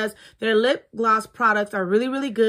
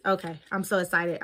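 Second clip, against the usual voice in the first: rushed; 4 semitones lower, 4 dB quieter, faster than usual. Real, not acted. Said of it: "I'm just rushing".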